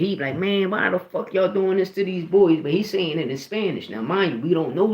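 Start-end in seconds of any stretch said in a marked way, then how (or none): 0.4-2.6 raised-pitch imitation of an angry grandpa; mildly heated retold griping; mad grandpa, retold. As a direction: complain like a fed-up grandpa, lightly acted. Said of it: "He mad as shit".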